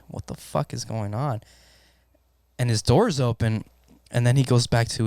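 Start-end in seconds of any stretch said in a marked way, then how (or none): 0.1-1.4 inner thought. Retold or imitated. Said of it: "In my head, I'm like".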